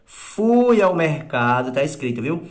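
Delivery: slow, measured reading of the example; slow dictation. Shown as a demonstration. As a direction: dictate it word by word. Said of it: "ó". (leitura lenta de ditado)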